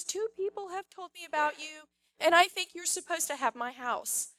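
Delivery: a hint of a French woman on the phone; Veronica. French woman offers her house to caller, lightly mimicked French accent. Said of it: "in her very French voice".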